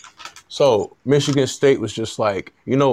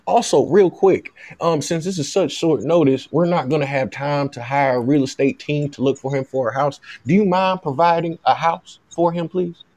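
light mock Southern accent, politely pushing for more; pretend Southern agent. Agent asks the university for a house, in a light Southern voice. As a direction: slip in another favor as a lightly Southern agent. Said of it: "This is my Southern voice".

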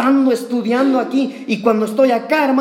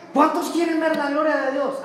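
higher pitched mock crowd-rousing call; retold preacher's yell; 5 semitones higher than usual. Mimicking the showy anniversary preacher, mock rousing call. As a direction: imitate a preacher working up applause. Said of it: "Y él gritaba".

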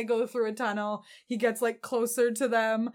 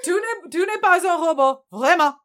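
put-on French accent; 6 semitones higher, 7 dB louder than usual. French robot banter, laughing.

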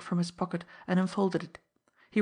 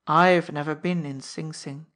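thin smile; 2 semitones lower, 6 dB louder than usual. Acted. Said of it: "he said with a thin smile".

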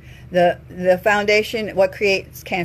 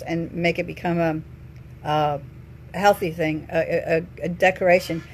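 trailing off; 3 semitones lower, 5 dB quieter than usual. Real, not acted. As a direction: voice fading, losing the thread. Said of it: "I got sidetracked what I was just saying".

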